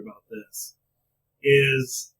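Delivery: ordinary talk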